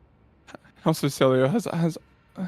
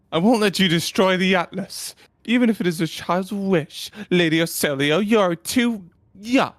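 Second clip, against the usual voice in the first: condescending envoy; 4 semitones higher than usual. Acted. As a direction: look down on the young lady. Envoy threatens young noble.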